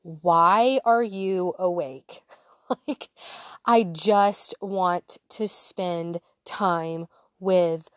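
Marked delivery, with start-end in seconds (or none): 0.0-2.2 slow rage. Retold or imitated. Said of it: "just this anger of".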